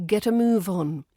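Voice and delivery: "move on" run lightly together; lightly linked on. Shown as a demonstration. Teacher modelling linking, "move" joined lightly to "on". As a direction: link the v of "move" into "on". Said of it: "And on is lightly linked".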